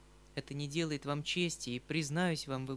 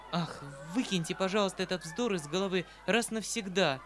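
вспыхнув от гнева; 2 semitones higher, 4 dB louder than usual. Acted. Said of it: "вскричала она, вспыхнув от гнева".

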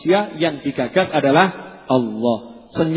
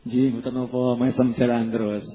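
mild calm reply; 5 semitones lower, 4 dB quieter than usual. Retold or imitated. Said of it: "Jawabannya seperti itu".

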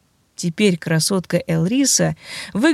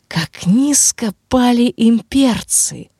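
mocking undead voice; 4 semitones higher, slower than usual. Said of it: "услышал Марк её голос".

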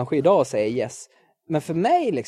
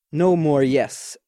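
slow declaration; much slower than usual. Real, not acted. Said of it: "öva bort Yes".

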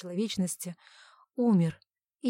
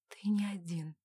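unvoiced soft whisper; whispered thought; 6 dB quieter than usual. Wife answering her husband in thought, soft whisper. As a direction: breathe it as a silent thought. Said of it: "мысленно ответила я".

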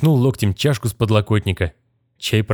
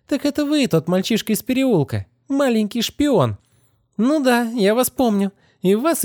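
girl sneering at the wizard, voiced higher; scornful girl; 14 semitones higher than usual. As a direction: belittle the little spy. Kitty recognises him, scornful.

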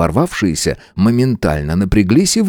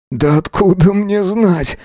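hoarse answer; 10 semitones higher, slower than usual. A narrator's reading. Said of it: "прохрипел я в ответ".

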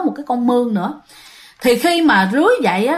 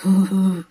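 low, drawn-out spirit moan; imitated ghostly moaning; possessed groan; 5 semitones lower than usual. A narrator's reading. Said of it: "Ngồi gật gù xong rên".

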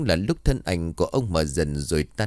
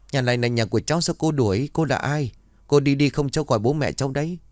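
higher, a lightly voiced scared child; frightened boy; 5 semitones higher than usual. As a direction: plead back like a frightened little boy. Frightened boy answers ghost. (giọng bé trai sợ hãi, cao hơn)

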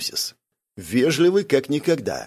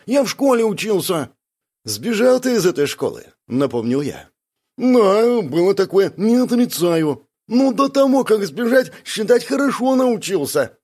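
Бяка, aggrieved; 8 semitones higher than usual. Acted. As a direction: complain like a wronged sidekick. Бяка's long indignant complaint. (обиженный Бяка, высоко и громко)

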